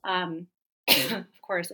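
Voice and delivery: coughing after water went down wrong; sputtering through a cough; choking on a drink. Real, not acted. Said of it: "I went down the wrong pipe".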